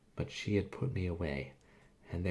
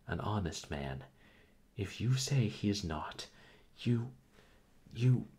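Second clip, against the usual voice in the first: indignant reproach. Acted.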